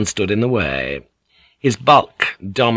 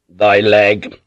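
shouted banter; 5 dB louder than usual. Acted. Bantering call between ships.

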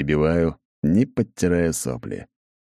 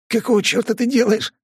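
much higher, shaking with fear; trembling voice; 3 dB louder than usual. A narrator's reading. Paley pressed to the wall, trembling voice. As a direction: ask it with a trembling, scared voice. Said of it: "дрожащим голосом спрашивает Палей".

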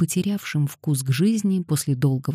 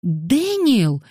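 higher-pitched cry of the name; cried out; 6 semitones higher than usual. A narrator's reading. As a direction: call out in alarm, pitch up. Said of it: "вскрикнула Ганория". (вскрикнув, высоко)

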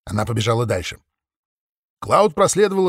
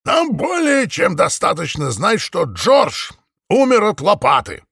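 conciliatory; 7 semitones higher, 4 dB louder than usual. A narrator's reading. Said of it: "примирительно произнёс сэр Ричфилд".

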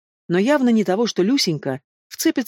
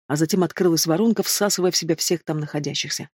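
ordinary delivery, nothing marked

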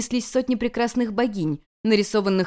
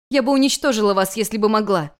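louder, higher heartfelt yell; cry in anger; 3 semitones higher, 4 dB louder than usual. Acted. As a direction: shout it from the heart. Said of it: "в сердцах крикнула".

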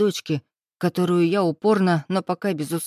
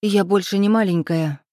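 scoffing; 3 semitones higher, 4 dB louder than usual. Acted. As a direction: scoff at the pet name. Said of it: "фыркнула она". (героиня фыркает: громко, презрительно)

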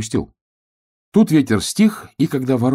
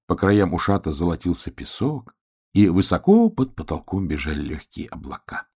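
gentle story narration. A narrator's reading. Narrator tucks hedgehog in by his sea, gentle narration. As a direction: let the tale settle, slowing and softening to the end. Narrator closes the bedtime tale.

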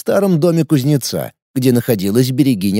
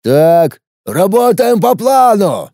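slow booming roar, higher and louder; 6 semitones higher, 4 dB louder, slower than usual. A narrator's reading. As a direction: bellow the order like a big boss. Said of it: "проревел Глыба". (рёв)

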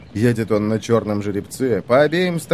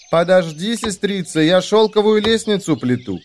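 distant sister voice; 7 semitones higher than usual. Acted. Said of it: "отвечает ей с высокой горы".

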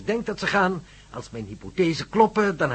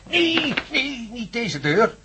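higher, hurried warning; alarmed; 8 semitones higher, slower than usual. Acted. Professor stopping his guests at the wrong door, alarmed. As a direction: stop them quickly at the wrong door.

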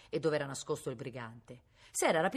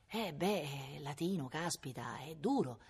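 soft, sympathetic concession; mildly patronising; 5 dB quieter, slower than usual. A narrator's reading. Boy consoles the brigand about Latin, mildly protective. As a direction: commiserate softly, a touch protective. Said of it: "stava prendendo un'aria protettiva".

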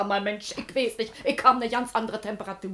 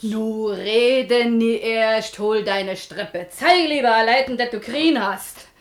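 bossy order; 6 dB louder, slower than usual. Acted. Wife orders husband about.

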